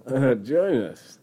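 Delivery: slow, eerie cult call; overlapping graveyard whispers. Acted. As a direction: drawl it like a ghost.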